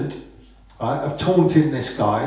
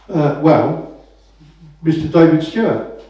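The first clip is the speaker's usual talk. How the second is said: unsure clamper; 4 dB louder than usual. Retold or imitated. Clamper answers in role play.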